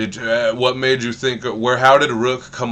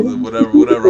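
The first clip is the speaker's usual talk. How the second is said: high mock imitation; 10 dB louder, much faster than usual. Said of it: "He was just like".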